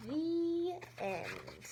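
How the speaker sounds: whispered ending. A narrator's reading. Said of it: "story closing".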